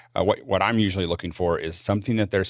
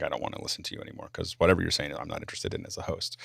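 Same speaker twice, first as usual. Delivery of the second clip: whispering; 7 dB quieter, faster than usual. Retold or imitated. Host's unspoken thought, imitated.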